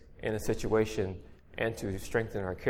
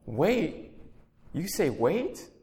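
higher, incredulous echo of the word wait; indignant; 6 semitones higher, much slower than usual. A narrator's reading. The poet protesting the Lord's answer, indignant and incredulous. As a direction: throw the word back in disbelief. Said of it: "my indignant, indignant reply".

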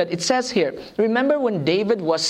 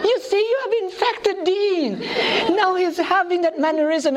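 mock alarm; 10 semitones higher than usual. Mock alarm at Dean copying.

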